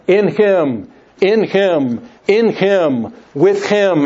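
each Him given its own weight; repeated Him, each one marked out; stress on Him. Shown as a demonstration. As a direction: lean on every Him and the With. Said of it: "in my intonation, have emphasized this".

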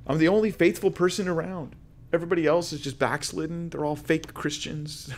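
high, aggrieved voice of a lone believer; self-pitying complaint. Acted. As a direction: complain as if everyone has let you down. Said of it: "That's how he felt".

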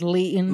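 Leighton said as LEE-tn, long ee; res accent. Shown as a demonstration. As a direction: Leighton with LEE first syllable. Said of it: "His old res accent".

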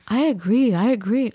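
wavy, sing-song imitation; mock agreeing. Neighbor agreeing with the painter, mockingly imitated. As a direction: parrot an eager yes-person.

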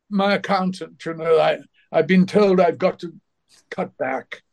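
a hint of an elder actor's plaintive voice; John Gielgud. Actor complains about money to a colleague, lightly imitated complaint. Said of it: "John was complaining about having to do movies like this".

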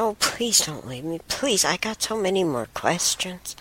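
mild mock pleading; retold upset plea. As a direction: retell your upset begging, lightly acted. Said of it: "And I got upset".

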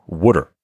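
"wooder" for water, first vowel like "wood"; Pennsylvania accent. Retold or imitated. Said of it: "I like the Pennsylvania wooder".

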